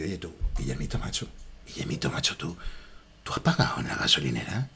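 low, hushed husky imitation with a half whisper; low breathy movie-star murmur, deadpan; Antonio Banderas. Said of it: "Así, a lo Antonio Banderas".

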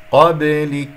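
clear, firm recited قبلك; qalqala without exaggeration. Shown as a demonstration. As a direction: lightly echo the b in قبلك, end on k. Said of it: "هكذا بارك الله فيكم من غير مبالغة".

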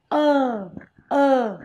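"Ơ" drawn out as a long, steady vowel. Shown as a demonstration. Teacher shows students the vowel in work, long vowel. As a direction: stretch the vowel "Ơ". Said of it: "ơ dài".

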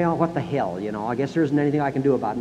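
resigned mumble. Retold or imitated. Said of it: "a lot of citizens would say".

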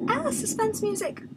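loud, high-pitched alarm; startled cry. Real, not acted. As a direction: yelp it out as if jumped. Startled by sudden suspense music.

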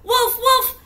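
very high, very loud repeated yells; crying wolf. Acted. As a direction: shout it desperately for help. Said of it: "She cried".

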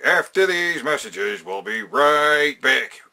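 slow, loud TV announcer; drawn-out broadcast sign-off. Shown as a demonstration. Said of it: "I'm like".

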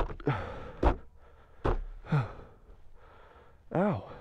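sharp gasp, then a soft ow; pained gasp. Real, not acted. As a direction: gasp from a burn. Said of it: "brake rotor in my glove".

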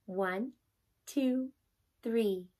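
counting while holding breath. Shown as a demonstration. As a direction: hold the breath, count slowly. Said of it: "Try it with me".

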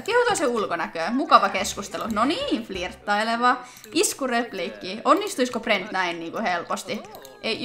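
ordinary talk, nothing marked

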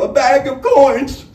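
eager betrayal. Acted. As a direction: blurt it out to save herself. Honey Bell betrays Matthew.

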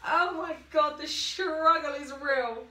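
loud, drawn-out exasperation; exasperated. Real, not acted. Vlogger wrestling into a bikini on camera, loud exasperated sigh of words. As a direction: groan it out like you're fighting the swimsuit.

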